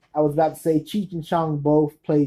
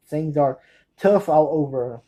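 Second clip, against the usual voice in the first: slow, separated "tough all over"; slowed-down repeat. Real, not acted. Fan correcting a too fast title, "tough all over" said slowly. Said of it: "I say it too fast".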